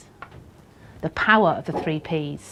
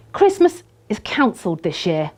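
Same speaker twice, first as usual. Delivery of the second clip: louder cry of a mum in despair; Mum shouting; 6 dB louder than usual. Shown as a demonstration. Mum over the turkey, a mild dramatic shout. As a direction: shout it like a mum at the end of her tether. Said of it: "shouted Mum".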